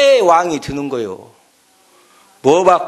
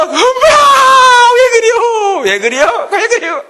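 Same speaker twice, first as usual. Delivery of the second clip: put-on high, louder panicked baby bird wailing half-laughing; comic squealing chick, crying for mother; frightened eaglet; 7 dB louder than usual. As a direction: cry out like a chick tumbling off a cliff. Preacher voices eaglet pushed off cliff.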